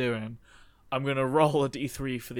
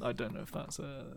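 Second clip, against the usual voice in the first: ordinary talk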